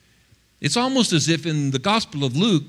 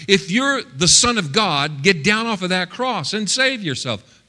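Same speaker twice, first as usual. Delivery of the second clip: high-pitched mock challenge; jeering accusers; 5 semitones higher than usual. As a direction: goad him like a heckler, imitating the jeer. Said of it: "the voices that were coming at him".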